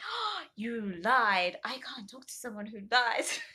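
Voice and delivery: slow, dramatic mock accusation; hammed-up dramatic accusation of lying. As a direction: play it like a betrayed soap star. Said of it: "Very dramatic".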